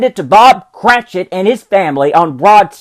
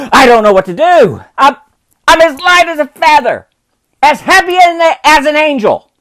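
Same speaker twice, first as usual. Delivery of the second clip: put-on high, laughing, shouting old man; giddy joyful Scrooge; 14 semitones higher, 4 dB louder than usual. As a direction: whoop it out like a drunken schoolboy. Scrooge bursts with joy.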